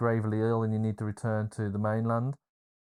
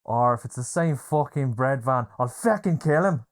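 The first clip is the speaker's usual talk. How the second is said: retold angry threat; 3 semitones higher, 5 dB louder than usual. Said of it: "and he goes".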